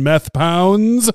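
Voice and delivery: high, loud, sung-out fight introduction; mock ring announcer. Podcast host mock-introduces the angry woman as a fighter, ring-announcer style. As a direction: announce a boxer to a roaring arena.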